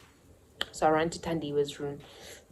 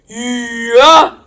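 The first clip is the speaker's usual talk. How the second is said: high loud cry of dismay; shocked yell; 7 semitones higher, 17 dB louder than usual. Real, not acted. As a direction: let it burst out like a scream. Shocked scream at mom's threat.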